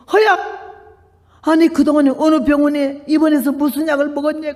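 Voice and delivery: high startled call of the name; nun amazed at the clean X-ray; astonished nun. Retold or imitated. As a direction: gasp out the name in shock, then ask.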